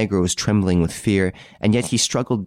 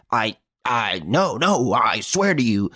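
mild frightened stammer, a touch higher; stammering in alarm; 4 semitones higher than usual. Acted. Victor denying who he is, mildly frightened stammer. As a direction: trip over the first words in panic.

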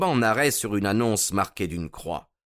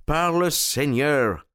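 avec force; 5 semitones higher, slower than usual. A narrator's reading. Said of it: "ajouta-t-il avec force".

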